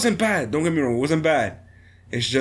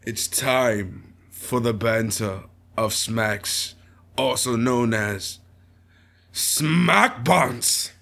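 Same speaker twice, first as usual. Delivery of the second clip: announcer; 4 semitones lower, much slower than usual. Pretend. Slow show announcement.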